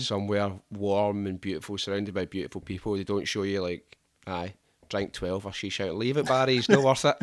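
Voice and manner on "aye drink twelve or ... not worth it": pub-fight parody; mock rowdy drunk.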